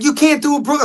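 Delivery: high-pitched incredulous imitation; retold disbelief. Producer questioning the actor about a Brooklyn accent, retold disbelief.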